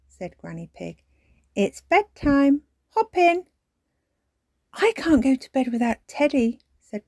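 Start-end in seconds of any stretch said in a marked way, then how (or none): 1.5-3.5 coaxing granny. A narrator's reading. Granny Pig putting children into bed, coaxing. 4.7-6.6 put-on high, loud little-girl voice; complaining child. A narrator's reading. Peppa without Teddy at bedtime, complaining.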